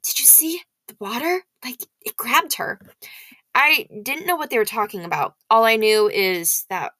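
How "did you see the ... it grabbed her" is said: hushed whisper; breathless whispered gossip. Acted. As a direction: whisper it to the kid beside you. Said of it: "Some of the kids were whispering".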